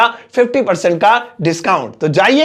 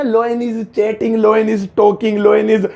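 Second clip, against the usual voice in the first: slow, teasing wrong phrasing; mock wrong example; much slower than usual. Shown as a demonstration. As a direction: show the silly mistake slowly. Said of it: "ये मत कहना". (मज़ाक में गलत उदाहरण)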